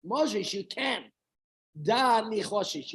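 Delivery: a loud, slow echo of the rebuke; stern translation. Retold or imitated. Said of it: "I'll translate".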